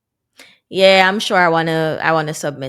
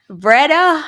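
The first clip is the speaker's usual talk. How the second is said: laughing; 8 semitones higher, 4 dB louder than usual. Real, not acted. Laughing at own mistake.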